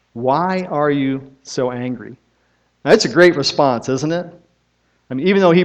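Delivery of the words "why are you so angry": repeated slowly, each word weighed; slow gentle question. Retold or imitated. Owner asking the jockey again, slowly and gently. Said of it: "he looks at the jockey and he says".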